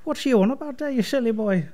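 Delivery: Irish character telling someone off; Irish accent. Acted. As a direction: chide them in a put-on Irish lilt. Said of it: "Your Irish accent".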